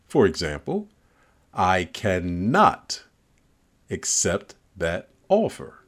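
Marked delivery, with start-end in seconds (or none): 1.5-5.8 slowed right down, each word weighed; slow, displeased. Shown as a demonstration. Rejecting an offer at the table, slow and firm. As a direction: drag it out to show displeasure. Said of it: "you might consider slowing your pronouncement".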